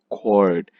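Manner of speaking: Cord as one full, stressed syllable; loud and clear. Shown as a demonstration. Teacher showing the stressed syllable, Cord clearly stressed. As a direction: say Cord firmly with a falling tune. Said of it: "Cord is pronounced loud and clear".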